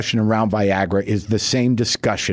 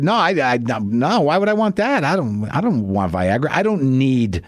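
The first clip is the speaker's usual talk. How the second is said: defensive. Retold or imitated. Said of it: "you get a little defensive".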